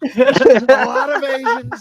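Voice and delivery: high, slow, loud Trump drawl; Trump impression. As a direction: stretch it out like Trump. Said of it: "Trump impression show".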